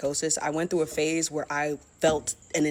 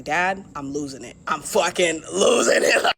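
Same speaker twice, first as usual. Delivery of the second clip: desperate cry; 3 dB louder than usual. Retold or imitated. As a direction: break down to your father. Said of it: "I was like".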